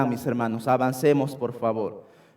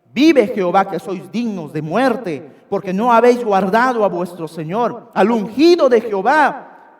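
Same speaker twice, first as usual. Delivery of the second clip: rebuking call; 3 semitones higher, 4 dB louder than usual. Acted. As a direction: call out the rebuke across the valley. David rebukes Abner from afar.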